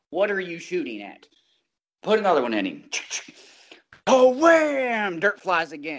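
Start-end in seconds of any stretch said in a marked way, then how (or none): 0.1-2.8 called out, gradually building louder. Retelling calling out to a shooter who keeps missing: retelling getting louder. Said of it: "I start to get louder".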